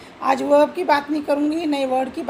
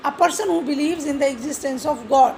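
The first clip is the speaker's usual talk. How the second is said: slow dictated definition; slower than usual. Shown as a demonstration. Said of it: "theist means".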